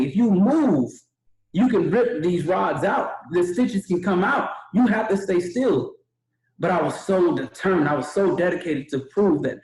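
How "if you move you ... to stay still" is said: stern doctor warning. Retold or imitated. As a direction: mimic the doctor laying down the rules slowly.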